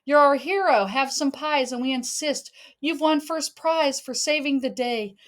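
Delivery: loud, cheery hooray; family cheering the rescuer home. Acted. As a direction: cheer for the little hero. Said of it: "Remember how we cheered".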